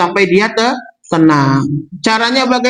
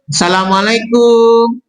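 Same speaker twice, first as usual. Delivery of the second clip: gentle greeting. Acted. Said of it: "Biasanya kalau salam lembut".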